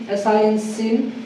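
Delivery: एस आई एन then सिन, letter by letter; spelling out slowly. Shown as a demonstration. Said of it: "फिर लिखा मैंने सिन". (धीरे-धीरे spelling करके सिन)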